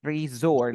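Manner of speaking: resort modelled as re-SORT; resort, second syllable stressed; stress on final syllable. Shown as a demonstration. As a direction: carry the voice force to the end of resort. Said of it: "La fuerza de voz hasta el final".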